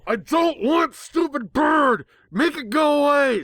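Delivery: very high, loud, slow tantrum shout; pony hiding her ears, screaming at the bird; yelling at top of lungs. A narrator's reading. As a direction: scream it like a fed-up child. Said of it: "yelling at the top of my lungs".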